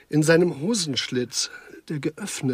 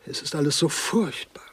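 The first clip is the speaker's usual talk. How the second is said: whispered lament. Acted. Lamenting the murders.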